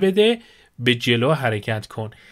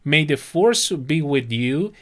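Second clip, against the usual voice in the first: said very slowly, rising at the end; slow model phrase; 2 semitones higher, much slower than usual. Shown as a demonstration. Persian teacher models a blessing for students, very slow. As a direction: spell it out slowly for learners. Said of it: "حالت دعایی داره".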